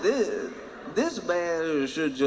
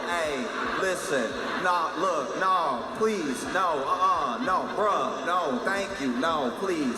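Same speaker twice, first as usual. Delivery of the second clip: pleading; 2 semitones higher, slower than usual. Retold or imitated. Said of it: "conversing with it like somebody you owe a lot of money".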